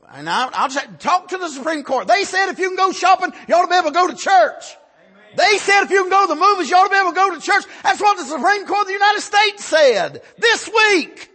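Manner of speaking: high, loud, driving pulpit shout; full-force preaching. Real, not acted. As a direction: hammer each phrase at the congregation.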